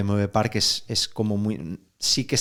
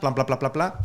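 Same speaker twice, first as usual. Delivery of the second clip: imitated clapping; 5 semitones higher than usual. Shown as a demonstration. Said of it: "que es como una horquilla".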